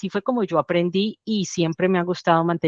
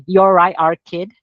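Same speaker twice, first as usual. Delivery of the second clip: loud Mancunian greeting; Mancunian accent; 5 dB louder, slower than usual. Shown as a demonstration. Showing the Manchester greeting to the interviewer, loud Mancunian. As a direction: say it like a Manchester local, punchy. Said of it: "es como se dice en Manchester".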